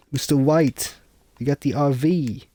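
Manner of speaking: bad Jesse impression. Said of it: "It sounds nothing like Jesse".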